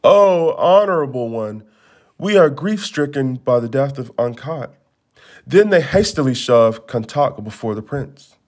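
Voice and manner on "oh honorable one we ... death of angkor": mock sorrowful plea, rising on the oh; feigned grief. Schemers fake grief before the prince, hammed-up sorrow. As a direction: fake your mourning to the prince. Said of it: "put on sorrowful faces".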